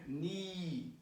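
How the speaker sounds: "Knee," with the EE stretched out; long vowel. Shown as a demonstration. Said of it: "this is like a long sound".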